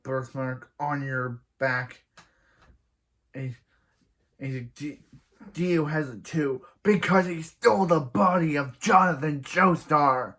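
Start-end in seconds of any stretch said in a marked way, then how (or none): 4.7-10.3 dramatic exposition. Retold or imitated.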